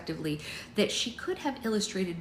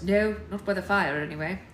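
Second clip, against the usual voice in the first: lightly voiced young man, firmer; corrected character voice; 2 semitones higher, 6 dB louder than usual. A narrator's reading. Alex answering about the fire, corrected voice. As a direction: answer as Alex, louder and steadier. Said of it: "Sorry, wrong voice".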